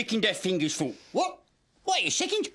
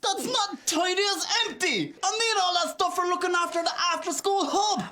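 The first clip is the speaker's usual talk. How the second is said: indignant protest; 9 semitones higher than usual. Acted. Puppet protesting to Mary about lost stuff, indignant. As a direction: protest like a wronged kid.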